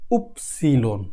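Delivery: উপসিলন said low and soft, falling at the end; উপসিলন spoken quietly and clearly; German Y sound. Shown as a demonstration. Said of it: "Y".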